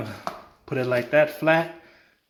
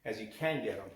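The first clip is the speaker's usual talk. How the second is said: halting, stumbling over words; stuttering. Real, not acted. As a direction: stutter and restart mid-sentence. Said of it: "Sorry, I'm stuttering".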